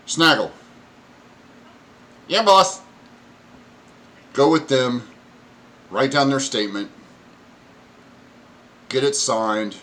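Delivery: high, loud goblin banter; goblin voices. Acted. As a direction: squeak it out like a goblin lackey. Goblin voices boss and lackey.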